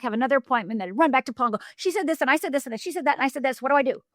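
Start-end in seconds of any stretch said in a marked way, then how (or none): 1.8-4.0 higher, flustered rapid report; anxious rush. Retold or imitated. New coach reporting each session to Paul, flustered. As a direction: gabble it out, panicked for help.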